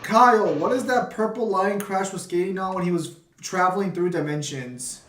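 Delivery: muffled, as if through a hand. Real, not acted. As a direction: voice dulled behind a covered mic. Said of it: "like you're muffled".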